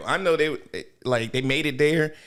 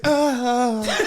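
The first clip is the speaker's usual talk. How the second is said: mock pained cry; 8 semitones higher than usual. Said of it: "he's like".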